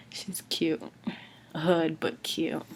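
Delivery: a secret little whispered compliment; whispered aside. Real, not acted. Praising the girl from the movie, whispered. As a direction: whisper "she's cute" under your breath.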